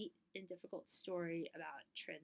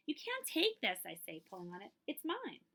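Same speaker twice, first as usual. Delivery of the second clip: mild angry protest; 3 semitones higher, 5 dB louder than usual. Acted. Child stopping a man taking her bike, high upset protest. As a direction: hold onto the bike and insist. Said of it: "I'm really angry".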